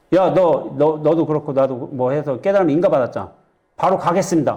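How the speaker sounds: lightly acted bold monk; a touch of cocky bravado; brash, unhesitating. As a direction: speak up bluntly, nothing holding back. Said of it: "거침없어".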